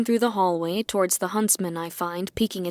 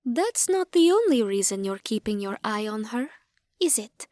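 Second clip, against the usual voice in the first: lightly voiced Fae; 2 semitones higher than usual. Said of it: "His Fae asks".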